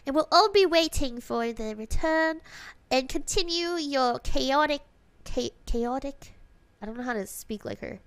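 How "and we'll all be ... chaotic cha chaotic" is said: attempted British accent; Hanakyo. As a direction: read it out in a tentative, mild British accent. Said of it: "can I read it like Hanakyo".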